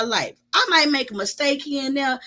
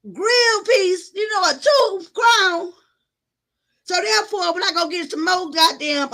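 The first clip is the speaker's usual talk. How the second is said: upset; 4 semitones higher than usual. Real, not acted. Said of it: "I was so sad".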